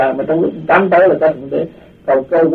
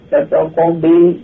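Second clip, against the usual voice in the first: pleading; 2 semitones higher, 4 dB louder, slower than usual. Retold or imitated. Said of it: "mới năn nỉ".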